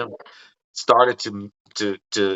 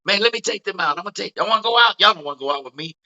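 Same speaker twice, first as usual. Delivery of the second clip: higher, eager party invitation; lightly imitated comedian urging a night out; Tracy Morgan voice; 5 semitones higher, faster than usual. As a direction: pitch up, coaxing the crew out. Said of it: "he goes".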